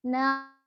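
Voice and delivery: Na with ain from the middle of the throat. Shown as a demonstration. Teacher showing the ain sound. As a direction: Na said from mid-throat. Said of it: "keluarnya dari tenggorokan tengah".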